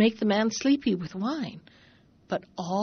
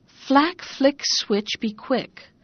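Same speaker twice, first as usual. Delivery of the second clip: spell words; 4 semitones higher, much slower than usual. Acted. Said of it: "you have only got to say".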